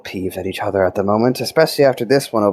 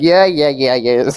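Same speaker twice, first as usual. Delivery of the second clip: mock whiny brother, pitched higher; 5 semitones higher, 3 dB louder, slower than usual. Teasing Garth by imitating him, mock whiny brother. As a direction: lightly imitate a whining brother. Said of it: "You sounded like a whiny brother".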